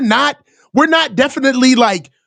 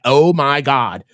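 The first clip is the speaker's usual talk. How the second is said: mock eager reporter; 11 semitones lower than usual. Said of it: "I was like".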